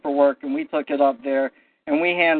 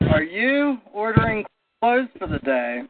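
pointed, raised challenge to the judge; challenging; 5 semitones higher than usual. Retold or imitated. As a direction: call it out boldly, pitch up.

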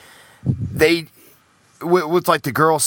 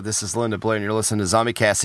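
Linda Blair voice; 5 semitones lower, 3 dB quieter, faster than usual. Retold or imitated. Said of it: "she does that, that laugh".

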